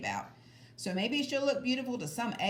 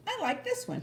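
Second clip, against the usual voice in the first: put-on much higher, smug girl voice; bratty girl; 13 semitones higher than usual. A narrator's reading. Sheila refusing to leave the rocks, high and smug. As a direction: claim it like you own it. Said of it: "she said".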